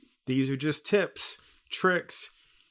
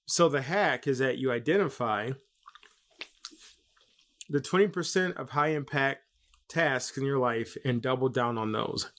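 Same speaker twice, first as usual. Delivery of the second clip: talking around gum in mouth; chewing gum. Real, not acted. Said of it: "I had gum in my mouth".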